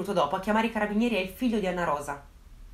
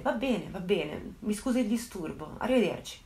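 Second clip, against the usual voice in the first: calmed down; 5 dB quieter than usual. Retold or imitated. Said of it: "di nuovo si calma e risponde".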